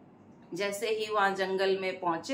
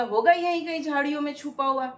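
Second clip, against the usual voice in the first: high, louder, quick irritated retort; annoyed; 5 semitones higher, 4 dB louder, much faster than usual. Acted. Irritated cowherd answering the disguised woman, quick and higher. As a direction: snap back impatiently. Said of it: "गुस्से में बोला".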